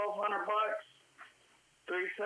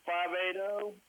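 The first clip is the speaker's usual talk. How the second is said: phone held away. Real, not acted. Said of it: "You're so far away from the phone".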